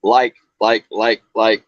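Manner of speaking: imitating Californians' repeated like; mock valley talk. Ozarks caller mocking Californian speech, valley accent. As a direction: rattle off likes like a Californian stereotype. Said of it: "people from California ... and they go".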